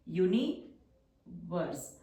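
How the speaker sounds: each syllable stretched very slowly; slow dictation. Shown as a demonstration. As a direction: say it slowly so students can write it. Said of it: "teacher dictates word slowly". (धीमा श्रुतलेख)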